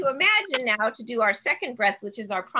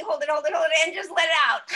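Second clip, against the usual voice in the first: giggling; 5 semitones higher, 4 dB louder, faster than usual. Real, not acted. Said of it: "they're making us smile already".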